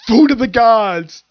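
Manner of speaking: high, loud, slow proclamation of delight; booming rapture. Retold or imitated. Lizard Priest tasting cheese for the first time, booming rapture. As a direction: bellow it like a reptile tasting heaven. And he's like.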